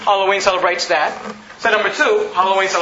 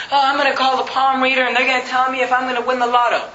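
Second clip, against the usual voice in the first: mock gullible client; 2 semitones higher than usual. Mocking palm reader client.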